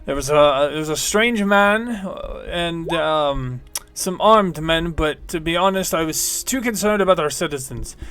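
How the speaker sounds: lightly voiced bored guard, unsure; hesitant guard. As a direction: fumble for an excuse.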